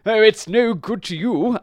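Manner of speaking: high, loud objection; protesting horse. A narrator's reading. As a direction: horse arguing with a selfish dog. Horse argues with selfish dog.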